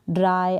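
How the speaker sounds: ड्राई ending in a clear eye sound. Shown as a demonstration. Teacher contrasting one-syllable words, ड्राई with eye. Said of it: "आई करके pronounce करेंगे".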